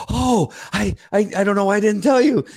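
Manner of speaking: put-on high, light voice of a young girl; girl's voice. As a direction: voice the teen girl, a touch surprised. Girl's voice in retold story.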